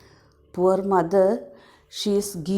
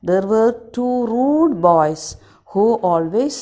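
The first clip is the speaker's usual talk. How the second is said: loud swallow telling; 4 dB louder than usual. Acted. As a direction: stress the rude boys loudly as the swallow. Swallow story reread.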